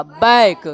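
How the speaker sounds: बैक with an open "ai" vowel; pronunciation demo. Shown as a demonstration. Teacher answering how it is pronounced, बैक with open "ai". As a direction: model बैक as one firm syllable. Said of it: "इसका उच्चारण हो जाएगा".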